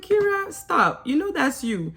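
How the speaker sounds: high "Kira", then a chiding stop; playful scolding, pitch up; mock scolding. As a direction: tease her for playing dumb. Scolding a contestant.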